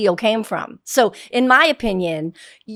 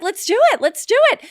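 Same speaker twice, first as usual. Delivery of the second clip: high-pitched eager re-enactment; retold eagerness; 12 semitones higher, 3 dB louder, faster than usual. Flattered mom agreeing to go on the show, high and eager. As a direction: act out being instantly won over, voice high. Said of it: "I felt so cool".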